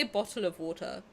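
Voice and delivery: "bottle of water" in a posh southern English accent; posh Southern English pronunciation of "bottle of water". Shown as a demonstration. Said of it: "'cause I'm from the South".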